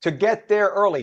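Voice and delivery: imitating dad with an Italian New York accent. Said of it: "give him an Italian New York accent".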